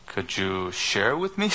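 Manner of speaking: imitating an eager, polite ask; polite retold request. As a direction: lift the pitch into a courteous request. Pastor's retold request to the Hindu.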